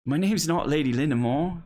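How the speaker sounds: put-on high child's objection; protesting young girl. Girl objects to her play name, high protest.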